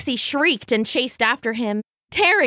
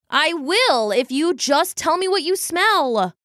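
put-on raised, playful young character voice; coaxing brother; 6 semitones higher than usual. A narrator's reading. Brother holding the tapestry from his sister, coaxing. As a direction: bargain with her, pitched up.

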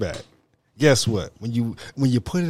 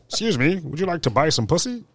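put-on old-timey proper. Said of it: "in black and white with a suit on".

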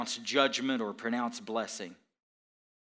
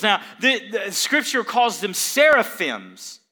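loud, ringing sermon delivery, building; preaching at full force; 7 semitones higher, 12 dB louder than usual. Acted. Pastor to congregation about Isaiah's vision, preaching at full force. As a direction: preach it out to the back pews.

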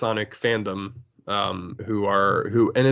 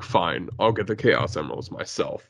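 a touch lower, brooding line; brooding Shadow; 5 semitones lower, 3 dB quieter than usual. Retold or imitated. Josh Brolin as Shadow, a touch low and brooding. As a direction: growl it like a loner. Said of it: "Josh Brolin as Shadow".

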